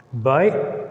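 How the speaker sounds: "Bi-o-l-o-g" as bi, uh, luh, jee in separate beats; divided, not "bio". Shown as a demonstration. Teacher correcting "bio" for students, syllables carefully separated. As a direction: pause between syllables of "Bi-o-l-o-g", second one a short uh. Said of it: "Don't s-, sound it as bio".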